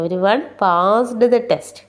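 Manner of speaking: very slow repeat, word by word. Shown as a demonstration. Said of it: "second slow read-through". (വീണ്ടും വളരെ സാവധാനം)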